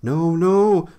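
high, loud cry of no; storybook engine crying out in alarm; alarmed refusal. A narrator's reading. Toby refuses the ghost entry.

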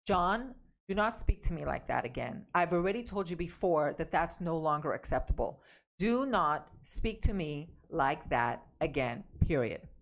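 warning husband John plainly, firmly; direct and clear. Shown as a demonstration. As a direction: shut it down, no room for argument. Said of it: "Now you're gonna be very direct and clear".

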